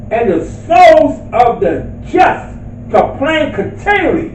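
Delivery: slow, measured scripture reading. Real, not acted. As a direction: read the verse out slowly, phrase by phrase.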